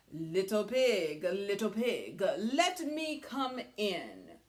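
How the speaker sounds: slow, coaxing wolf voice; lightly voiced wolf drawing out the plea; wolf asking. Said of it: "the wolf's line".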